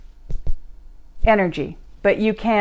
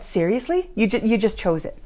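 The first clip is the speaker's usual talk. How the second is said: dumbfounded; 2 semitones higher than usual. Retold or imitated. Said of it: "dumbfounded look and said".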